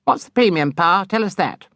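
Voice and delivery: put-on high, pressing girlish voice; eager daughter. A narrator's reading. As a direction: demand the money figure from papa. Charity presses father.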